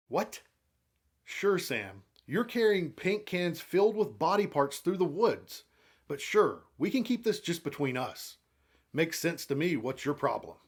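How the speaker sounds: incredulous, sarcastic aside; mock sarcasm. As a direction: play along in mock agreement. Narrator's sarcastic aside mocking Sam's request.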